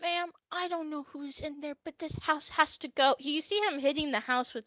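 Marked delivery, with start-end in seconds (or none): 0.0-3.2 put-on a fussy old man, pitched up and fretting; lightly voiced old elf, mildly upset; old elf upset about his flowers. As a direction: fret over ruined flowers like an old man. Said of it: "He goes".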